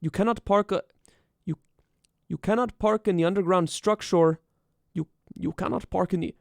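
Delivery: put-on lightly done Armenian accent; a mild Armenian-accented parking warning; Eddie's Armenian accent. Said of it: "Eddie was Armenian. How did he talk?".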